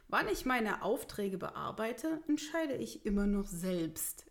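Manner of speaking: mildly testy retort; a touch of annoyance, standing your ground; irritated. Acted. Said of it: "erwiderte Grimkjell gereizt".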